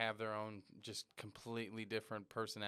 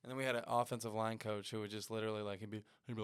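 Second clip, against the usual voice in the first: ordinary talk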